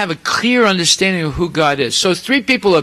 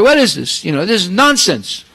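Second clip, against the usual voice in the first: raised, louder indignant outburst of a father; an insulted father snapping at his son; retold anger, voice pitched up and pushed louder; angry Brahma; 6 semitones higher, 4 dB louder than usual. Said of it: "So Brahma became very angry".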